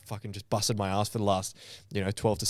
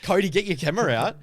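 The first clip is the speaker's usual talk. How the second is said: high, loud call to a friend; calling out to Cody to grab the camera; excited call; 9 semitones higher, 6 dB louder than usual. Retold or imitated. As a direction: urge him to film now.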